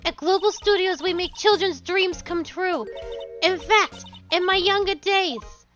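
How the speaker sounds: put-on old woman voice. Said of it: "I have to do an old woman voice".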